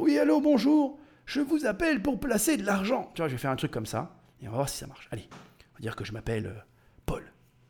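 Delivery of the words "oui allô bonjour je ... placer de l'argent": put-on elderly gentleman voice pitched very high. Calling a phone number as a made-up caller, old man voice. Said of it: "Je vais prendre une voix de, de vieux monsieur".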